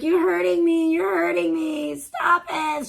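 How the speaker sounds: high whiny pleading voice; mock hysterical victim. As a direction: play the wailing arrestee. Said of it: "She's like".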